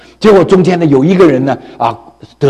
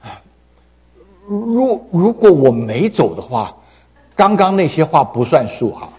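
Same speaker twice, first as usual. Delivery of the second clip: panting; 5 dB quieter than usual. Acted. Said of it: "他喘着气".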